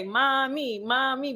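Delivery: lightly voiced cheering girls; cheering little girls. Daughters cheering mom on as she leaves, mildly mimicked cheer. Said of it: "It's like all they need is their little signs that say".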